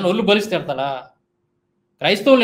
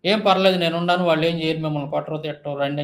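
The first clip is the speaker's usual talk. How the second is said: reassuring. Retold or imitated. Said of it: "ఆయనకి నేను ధైర్యం చెప్పాను".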